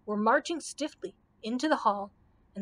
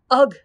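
short shuddered "ugh"; a brief, mildly acted shudder of disgust; shivering ugh; 3 semitones higher, 13 dB louder than usual. A narrator's reading. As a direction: recoil with a quick ugh. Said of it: "shivered the Scarecrow".

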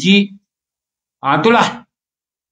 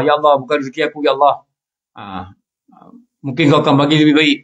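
resigned prayer; 4 semitones lower than usual. Retold or imitated. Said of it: "ingat Allah".

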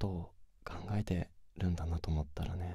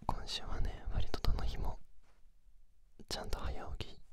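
pillow talk; 5 dB louder than usual. Acted. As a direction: murmur intimately as if lying beside them. Sleep-together chat whispered throughout.

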